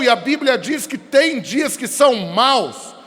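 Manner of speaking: ordinary delivery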